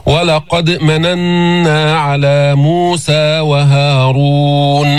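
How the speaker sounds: very slow chanted recitation with held ghunna; melodic tajweed recitation. Shown as a demonstration. Teacher chanting the verse as a model for students. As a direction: draw out مننا with a long nasal hum.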